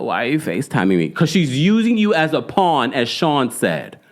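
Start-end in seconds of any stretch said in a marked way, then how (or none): 0.0-1.1 vocal fry. Retold or imitated. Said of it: "Don't talk to me in vocal fry".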